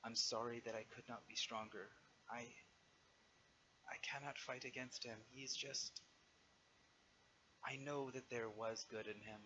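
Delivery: soft, defeated dragon murmur; mumbling under breath. Acted. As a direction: mumble it quietly, ashamed and beaten. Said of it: "she mumbles under her breath a little bit".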